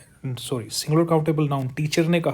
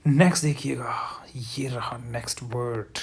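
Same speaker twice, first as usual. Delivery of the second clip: whispered cue next देखिएगा; 2 semitones lower than usual. Acted. Teacher whispering next cue to students, hushed. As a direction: breathe the cue out unvoiced.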